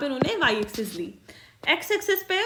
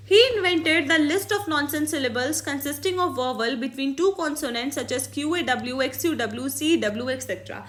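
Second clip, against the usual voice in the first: slow, careful read-aloud of a textbook line; dictating from the book; much slower than usual. Shown as a demonstration. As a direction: read each word out slowly for the class. Reads textbook English aloud.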